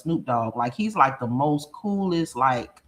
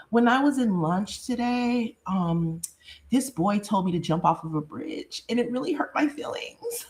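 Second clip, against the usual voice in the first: imitating her daughter; 5 semitones higher than usual. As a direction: play the hurt daughter trailing off. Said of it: "'cause she's like".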